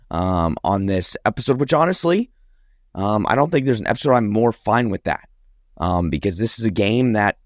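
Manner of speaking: raspy, sore-throated voice; talking through a sore throat; hoarse voice. Real, not acted. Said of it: "I sound terrible".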